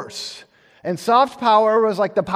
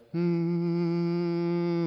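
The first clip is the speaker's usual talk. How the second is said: serpent hum; 7 dB quieter than usual. Acted. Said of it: "makes a noise".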